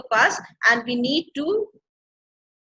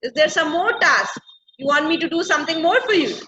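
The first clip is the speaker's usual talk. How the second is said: higher-pitched, mildly indignant questions; unhappy complaint; 4 semitones higher, 4 dB louder than usual. Acted. Ariel asks Prospero about another task, mildly unhappy. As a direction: question the extra task in mild protest. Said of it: "like, not very happy now".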